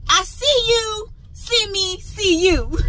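sing-song mock exchange. Voicing the courtesy van drivers should show each other, high sing-song. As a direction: act out two drivers nodding to each other.

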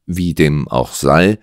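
slow, measured patience; patient. Acted. Detective carries on with the client, patient. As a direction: take it slowly and patiently. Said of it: "setzte Holmes geduldig fort".

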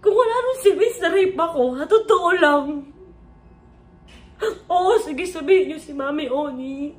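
nearly breaking down as you say it; distraught. Real, not acted. Peak of tearful account.

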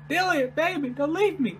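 high, whiny plea; pleading. Real, not acted. Player begging Dillian not to leave, pleading. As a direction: beg them to stay.

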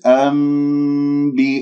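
أنبئوني with the ن turned into م before ب; nun to mim. Shown as a demonstration. Teacher shows the iqlab for students. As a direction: hum أنبئوني as ambi'uuni slowly. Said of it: "قلبت إلى ميم".

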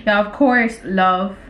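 slow, halting dictation; typing aloud. Real, not acted. Replying to his text, slow dictation. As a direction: say each chunk as you type it.

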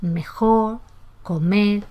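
"mejor, comer" ending on open vowels, like "mejó, comé"; dropped final R. Shown as a demonstration. Teacher listing examples of lost R, "mejor, comer" without final R. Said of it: "Si es debilitamiento o pérdida".

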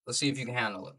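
a hushed, playful dare; quiet taunt. Shown as a demonstration. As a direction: drop it down and dare them to "handle it". Repeats the taunt, dropping the voice.

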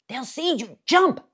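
rising to a high, loud Jump; urgent shout. Acted. Jim in the tree urging Will to jump, loud and high. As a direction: push him to leap now.

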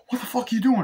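high, hissed horrified question; imitating a stunned Max; shocked whisper. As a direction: whisper it in horror.

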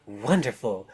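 high, swooping voice of a witchy overlady; Baba Yaga, grand hostess. Acted. Baba Yaga greeting her players, high and ceremonious.

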